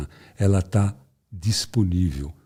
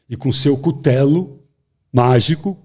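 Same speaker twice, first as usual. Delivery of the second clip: usual speaking voice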